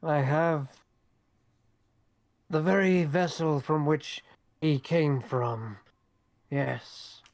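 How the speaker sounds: slow, measured in-character testimony; slow, deliberate doctor character; doctor on the witness stand. Acted. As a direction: draw it out with pauses, as a witness in court. Plays a witness addressing the court.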